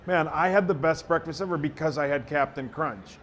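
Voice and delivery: conversational radio spot read; improvised ad read. Shown as a demonstration. Radio guy improvising a cereal spot on request, conversational ad read. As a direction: pitch it like chatting to a listener, slowing on the brand name. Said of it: "see if I can do a minute on it".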